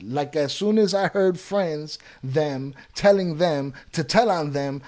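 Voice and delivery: careful second try at a garbled sentence; deliberate re-reading. Real, not acted. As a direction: read it out slowly, piece by piece. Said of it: "Let's try that again".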